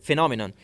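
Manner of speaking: "phenomenon" said carefully with stress on NOM; pronunciation model. Shown as a demonstration. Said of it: "you will have to pronounce that word as".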